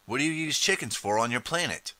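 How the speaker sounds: high-pitched, puzzled challenge; incredulous question. Acted. Time traveler questioning the chicken-kicking Emperor, incredulous.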